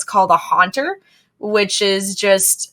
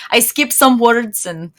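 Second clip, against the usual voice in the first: Russian accent. Shown as a demonstration. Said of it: "the Russian one is also real easy".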